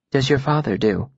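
as if soothing a skittish animal; mildly hushed, reassuring voice; low, gentle tone. A narrator's reading. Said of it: "It was the same low, gentle tone".

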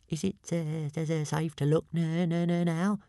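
small high voice catching on its words; Toothless the dragon. A narrator's reading. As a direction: stutter it in a thin, high creature voice. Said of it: "asked Toothless".

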